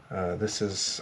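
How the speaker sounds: muffled around a pen; words round a pen held in teeth; pen in mouth. Real, not acted. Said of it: "I hold the glue pen in my mouth".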